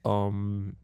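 lightly voiced embarrassed bathroom caller; distorted one. Shown as a demonstration. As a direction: rehearse the toilet-paper plea. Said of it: "the distorted one".

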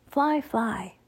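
lightly voiced croaking raven; a hint of a bird's croak. A narrator's reading. Annie the raven urges flight, lightly croaked. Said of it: "Annie croaked".

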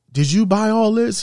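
imitated wonder; happy amazement. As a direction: ask as the delighted, impressed disc jockey. Happy disc jockey asks employee.

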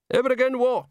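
high, muddled voice; acted mumble, pitched high; mumbled question. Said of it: "mumbled a voice behind him".

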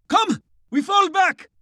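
high-pitched command, called out; urgent retreat order. A narrator's reading. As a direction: call the men back urgently.

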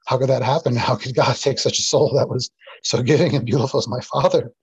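real tearful emotion, voice wavering; choked up. Real, not acted. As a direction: ask it through rising tears. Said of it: "a little emotion too".

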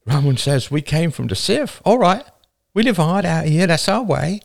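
high, impassioned tirade; urgent speech that stumbles into stammering at the end; wide-eyed alarm. A narrator's reading. Woman warns her people this is the end, wide-eyed. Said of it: "A wide-eyed woman said".

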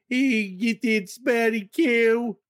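high, stretched-out mock Midwestern accent. Shown as a demonstration. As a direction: ham up the Midwestern vowels, very slowly. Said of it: "Can you say it right though?".

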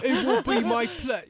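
Brooklyn accent slipping into English. Shown as a demonstration. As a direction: start in Brooklyn accent, drift British. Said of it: "I always shift into it".

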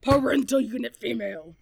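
stiff robotic announcement. Pretend. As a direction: say it like a cold machine. Robotic joke about mom.

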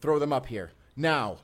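commanding yell; urgent shout. Acted. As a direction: get them up here fast. Urgently calling to partner below.

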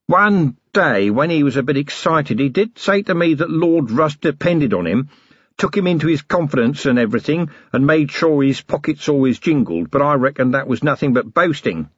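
eager, simple-minded prisoner voice; lightly voiced dim henchman, talking up; simple working man. Flutter speaks to Vimes.

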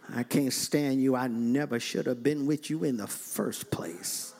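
mock lovers' quarrel.

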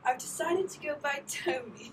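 slow, mock Italian accent. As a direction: play a cheesy Italian guy. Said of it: "my Italian accent".

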